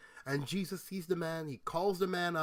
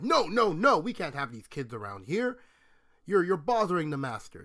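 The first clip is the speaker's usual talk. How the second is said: louder, scolding no-no-no; mock upset disciples; 6 dB louder than usual. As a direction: shoo the kids away, fussy and cross. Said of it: "the disciples get upset".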